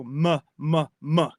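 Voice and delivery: "m, m, m" as separate short "muh" syllables; isolated M sound. Shown as a demonstration. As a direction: sound out each alliterating M on its own. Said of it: "we get M".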